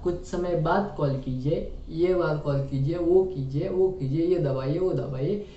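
IVR recording voice. Retold or imitated. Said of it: "जो बोलता है ना".

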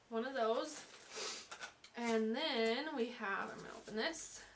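talking funny with a swollen mouth. Real, not acted. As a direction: speak carefully through a sore, swollen mouth after wisdom teeth. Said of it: "I'm sorry if I'm talking funny".

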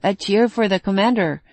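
lifted, eager call for a cheer; rally the crowd, half-hearted; mild cheer. Acted. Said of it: "cried Jakob".

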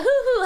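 mock "heh-heh" giggle; imitated teasing chuckle. Streamer imitating how a teaser signals the joke, mock chuckle. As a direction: imitate someone's obvious teasing snicker. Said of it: "흐 하면서 놀리는 거예요 라고 티를 잔뜩".

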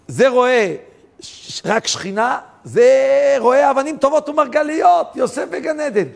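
high, loud excitement; fervent preaching. Acted. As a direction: marvel aloud at the vision. (התלהבות בקול רם וגבוה)

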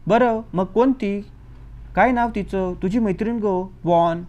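चिडून, रेटून विचारलेले प्रश्न; annoyed aunt. Acted. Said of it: "वैतागून म्हणाली". (वैतागलेली मावशी, उंच आणि मोठ्या आवाजात सावकाश)

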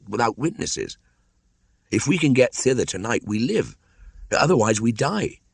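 hurried and afraid; village mother and boy. Acted. Mother planning escape to Kaniwara, anxious. Voices Meswa and Mowgli in dialogue.

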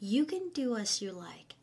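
slow whispered line; whispered demo. Shown as a demonstration. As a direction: breathe "You can do as you like" slowly. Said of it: "teacher demo". (กระซิบช้าๆ)

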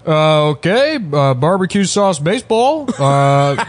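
doing a Chinese comic doing Obama nonsense; mock Obama impression. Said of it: "doing an Obama impression".

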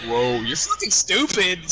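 slow motion voice. Retold or imitated. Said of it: "Started talking in my normal voice".

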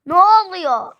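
loud, high, stretched-out question; jolted awake, demand it loudly; play-acted startled yell; startled cry. Sleeper startled awake by shouting.

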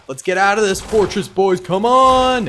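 put-on rally the troops in a Russian accent; Russian comrade accent. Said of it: "fun to do the Russian comrade accent".

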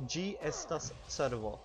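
slow, careful first take; slow demo. Shown as a demonstration. Teacher to viewers, slow first take of the phrase. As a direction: model it slowly for repeating. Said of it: "how would you say "it is a deer"?".

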